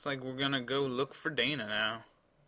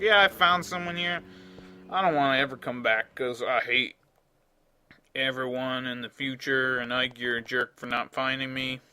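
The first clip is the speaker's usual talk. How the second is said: put-on southern accent; 3 dB louder than usual. Player voices Dana refusing to come back, southern accent. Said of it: "Dana's got a southern accent now".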